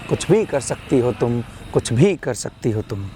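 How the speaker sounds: measured, rhyming poetry delivery; motivational poem recitation. Acted. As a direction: recite to rouse the listener, falling on each refrain.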